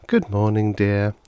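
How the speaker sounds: distracted, half-listening greeting; absent-minded mother. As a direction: say it while thinking of something else. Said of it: "his mother said absently".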